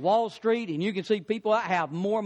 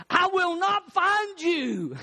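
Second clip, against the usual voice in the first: higher, slow, laughing through it; 9 semitones higher, slower than usual. Real, not acted. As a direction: chuckle through the promise. Pastor jokes after punchline.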